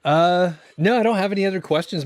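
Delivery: talking with a burning, drooling mouth; words through a mouth on fire from spice; mouth burning from spicy food. Real, not acted. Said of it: "My mouth is burning".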